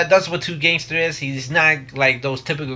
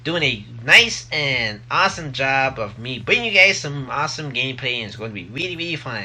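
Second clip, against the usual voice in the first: lightly put-on nerdy gamer intro, a little louder; 3 dB louder than usual. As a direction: play the goofy nerd greeting his viewers. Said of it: "his old, funny, nerdy voice".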